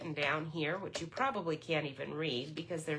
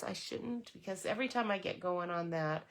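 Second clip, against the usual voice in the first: normal talking voice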